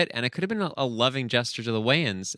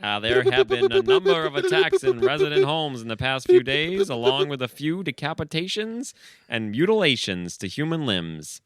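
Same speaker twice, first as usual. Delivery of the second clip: news anchor voice; 4 semitones higher than usual. Acted. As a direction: read the breaking news like a TV anchor. News report read on TV.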